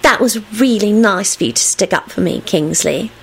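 sickeningly sweet. A narrator's reading. Rosie thanks Kingsley for defending her, sugary sweetness. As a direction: flatter him in syrupy tones. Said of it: "in a sickeningly sweet voice".

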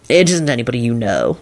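low, unhurried reassurance; calm. A narrator's reading. Visitor explains his mysterious friend, calm. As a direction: say it calmly, dropping the pitch. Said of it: "Lupin said calmly".

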